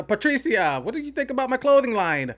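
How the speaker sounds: high, swooping cartoony Italian accent; Jared Leto's mock Italian accent. Reviewer mocking the actor pitching a clothing line, cartoony Italian accent. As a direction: ham up a bad Super Mario Italian accent. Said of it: "doing their best Super Mario impression".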